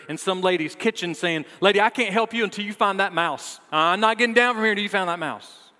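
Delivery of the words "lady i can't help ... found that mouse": high, loud, hammed-up refusal; comically frantic protest, pitched up; mock panic. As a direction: play a responder scared of a mouse. Acting out a panicked responder on chair.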